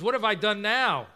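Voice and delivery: mild put-upon protest; a touch of younger-brother frustration; exasperated. Acted. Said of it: "He's almost exasperated".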